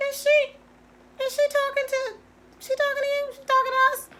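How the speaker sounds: retelling a shocked "is she talking to us"; incredulous disbelief. Retold or imitated. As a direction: sound stunned that she'd dare. Reacting to the screaming manager.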